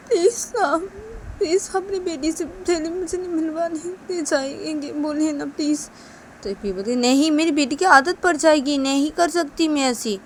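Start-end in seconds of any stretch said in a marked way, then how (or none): 0.1-5.9 tearful plea. Pretend. Maid begs to meet daughter.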